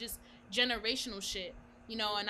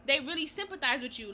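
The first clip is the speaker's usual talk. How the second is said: laughing; 7 semitones higher, 12 dB louder than usual. Real, not acted.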